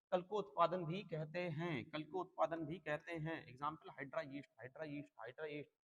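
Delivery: slow, drawn-out words for note-taking; measured teacher's dictation pace. Real, not acted. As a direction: dictate slowly, stretching each phrase as you write. Teacher dictating notes, repeating slowly.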